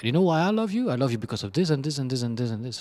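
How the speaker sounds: mock girly rapid list; girlfriend listing reasons. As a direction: rattle off the reasons quickly. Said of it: "and she goes like".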